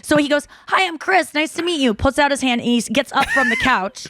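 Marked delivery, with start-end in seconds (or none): 0.7-1.9 high, courteous retold hello; imitating polite introduction. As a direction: mimic his sweet first greeting. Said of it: "he's, like, so polite".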